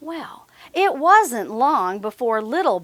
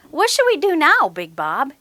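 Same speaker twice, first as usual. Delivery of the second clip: yawning; 4 semitones higher than usual. Acted. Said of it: "yawned little Bob".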